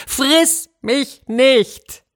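hoher, sehr langsam gedehnter Schrei; geschrien. A narrator's reading. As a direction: schreit die Bitte weit gedehnt heraus. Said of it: "Und da schrie er". (dem Löwen mit gedehnter, hoher Stimme zugeschrien)

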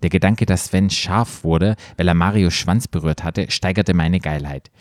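low, measured read-aloud voice; story narration. A narrator's reading. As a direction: narrate it like an audiobook. Reads erotic story aloud.

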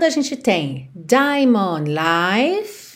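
The album title with no final E sound; correct pronunciation. Shown as a demonstration. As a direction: say "Life" ending clean on the F. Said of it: "Atenção pra não pronunciar o E". ("Life" sem E no final)

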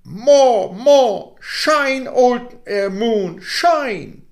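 put-on high, eager child calling out; excited boy. Boy urging the moon to shine, high and excited. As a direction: egg the moon on gleefully. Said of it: "the boy replied".

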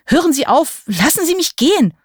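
crying out. A narrator's reading. Captive begs the laughing witch to stop, crying out. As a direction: cry out to be released. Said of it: "schrie ich".

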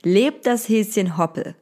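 storybook voice; story narration. A narrator's reading. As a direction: read it like a bedtime tale. Reads Easter bedtime story.

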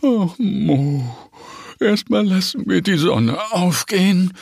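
a yawning mother bear, lightly played; lightly voiced bear mama. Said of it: "Doch die Bärenmutter gähnt nur".

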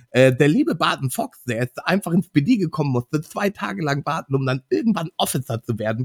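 lisping, slightly nasal cop voice; Barton Fox voice. Shown as a demonstration. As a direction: lisp through it like a goofy clever officer. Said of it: "Ich demonstriere euch einfach mal die Stimme".

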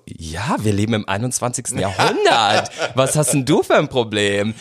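emphatic, incredulous mother imitation; retold exasperation. Mother answering anxious child's coming out, exasperated dismissal. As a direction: brush the worry off with mock impatience.

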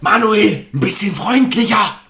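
high, loud call across the pitch; calling from the sideline. Pretend. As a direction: shout it in from the touchline. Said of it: "von der Seite ruft er dann immer so rein".

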